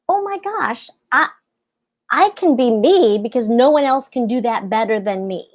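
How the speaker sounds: ordinary talk, nothing marked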